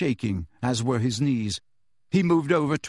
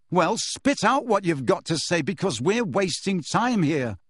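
shouting; 6 semitones higher than usual. Acted. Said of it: "Harry shouted".

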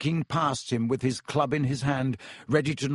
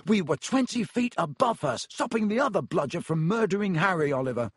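higher, heated protest; angry; 6 semitones higher than usual. Acted. George defending himself to Wood, angry. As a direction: snap back in frustration. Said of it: "said George angrily".

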